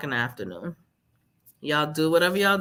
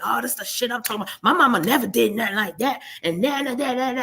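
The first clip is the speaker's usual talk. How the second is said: mocking contempt; 5 semitones higher, faster than usual. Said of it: "He'd be like".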